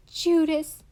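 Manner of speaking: loud, high, cutting accusation; stung accusation. A narrator's reading. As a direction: spit the word out, hurt and furious. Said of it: "not been a very ladylike thing to say".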